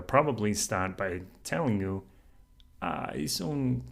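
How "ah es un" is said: lilting, delighted Spanish praise; enchanted Spanish. Shown as a demonstration. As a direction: savour the little town in Spanish. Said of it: "you even hear the difference in my tone of voice".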